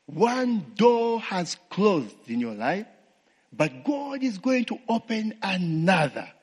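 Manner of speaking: lightly voiced preacher, slow; a hint of a TV preacher's promise; preacher quote. Retelling Joyce Meyer's televised sermon, lightly preached. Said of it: "is preaching".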